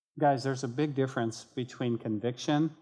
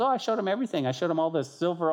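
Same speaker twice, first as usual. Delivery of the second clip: higher, light mock bragging; naive boasting; 5 semitones higher, much faster than usual. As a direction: play a pleased show-off, lightly. Hezekiah answers prophet, showing off.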